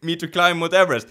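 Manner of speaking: mock protest. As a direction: protest loudly, half laughing. Acted protest to friend on mountain.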